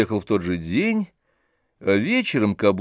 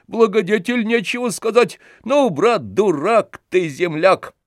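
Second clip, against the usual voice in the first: much higher, loud scornful taunting; jeering mockery; 10 semitones higher, 4 dB louder than usual. A narrator's reading. Tarantyev jeers at Oblomov over his lost bride, high and scornful. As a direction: rub his nose in it with scorn.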